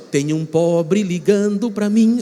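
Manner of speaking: slow, lightly voiced sneer at a collect call; a hint of a snooty person picking up the phone; mock phone answerer. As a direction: drawl it like someone who hates collect calls. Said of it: "quem atendia dizia assim".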